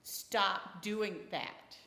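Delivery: slow, firm mock command; firm stop. Mom telling her son to stop hitting, slow and firm. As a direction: lay down the law, slowly. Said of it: "Or more forceful".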